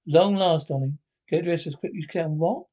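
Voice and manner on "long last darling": loud greeting. Acted. Husband loudly greeting his new wife, a loud sudden greeting. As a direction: fling the words out loudly at her.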